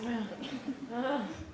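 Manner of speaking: small, soft laugh after a quip; short laugh. Acted. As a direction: laugh quietly at your own joke. Laughs after sarcastic hashtag.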